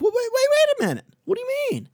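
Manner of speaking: high squeaky voice of a startled prospect; high mock voice of a flustered prospect; imitating a prospect. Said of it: "a lot of times they're like".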